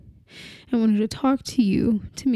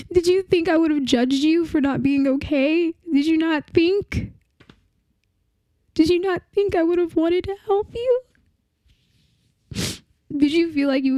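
higher, strained, pleading questions; anguished pleading; 5 semitones higher than usual. Acted. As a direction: beg for an answer that won't come. Grieving partner confronts the dead.

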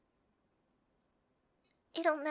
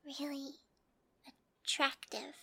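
whispered; 4 dB quieter than usual. Acted. Shy confession.

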